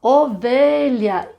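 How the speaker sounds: "Ovelha" bem devagar, o-ve-lha; sílabas marcadas. Shown as a demonstration. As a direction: silabe "Ovelha" para a turma. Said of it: "Que figura é essa?". ("Ovelha" silabado devagar)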